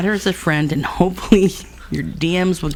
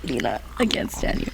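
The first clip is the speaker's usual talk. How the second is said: whisper-shout; 6 dB quieter than usual. Pretend. Playful whisper-shout at friend.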